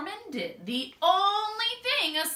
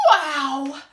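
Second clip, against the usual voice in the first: dazed wow; 8 dB louder than usual. Acted. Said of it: "said Norman".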